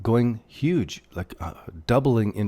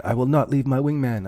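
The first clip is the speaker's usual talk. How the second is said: quoting a movie pilot with a hint of heroic grit, a bit higher; Top Gun quote; 4 semitones higher than usual. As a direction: deliver the Top Gun wingman vow with playful mock resolve. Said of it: "a Top Gun wingman".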